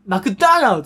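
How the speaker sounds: "マクダーナルド" with a long, stressed ダー; English-style intonation. Shown as a demonstration. Coach shows the word's English intonation, "マクダーナルド" stressed on ダー. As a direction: lean on ダー in "マクダーナルド", then let the rest fall. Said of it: "イントネーションがないと".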